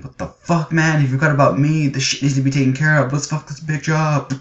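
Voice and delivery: mock gruff fox demon. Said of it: "Kurama is going".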